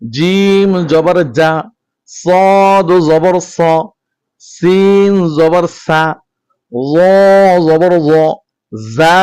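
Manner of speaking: slow, even chant of each letter and vowel; steady teacher's chant, measured and clear; letter recitation drill. Shown as a demonstration. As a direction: recite every syllable clearly for students to repeat. Drills Arabic letters with vowel marks.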